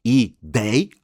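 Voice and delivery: "Ideia" as i-DEI-a, final a apart; separated syllables. Shown as a demonstration. Teacher shows the separate a in Ideia, syllable by syllable. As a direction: keep the "ei" together and detach the "a" in "Ideia". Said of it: "que é separado".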